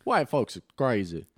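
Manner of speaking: slow, put-on African American accent. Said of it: "The voice you did with it".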